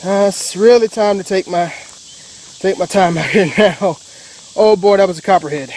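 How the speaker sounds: catching his breath after a scare; breathless, still shaken; after a workout. Real, not acted. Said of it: "let me catch my breath here".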